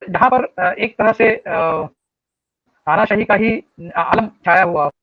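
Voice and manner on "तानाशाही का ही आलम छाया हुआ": corrupted glitchy audio. Real, not acted. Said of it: "आवाज cut रही है".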